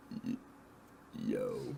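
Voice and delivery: hushed, breathy, froggy, just-woken groggy voice. Answering a phone call, greeting the caller in a put-on frog-in-throat voice. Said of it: "Why are you talking like that?".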